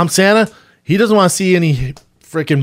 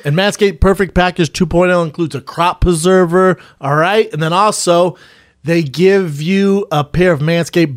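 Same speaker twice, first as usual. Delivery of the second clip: infomercial. Acted. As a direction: sell it like a podcast ad. Sponsor ad read.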